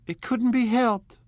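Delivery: high, slow, forced bright cry; a high, slow cry of tense gaiety. A narrator's reading. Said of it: "with tense gaiety".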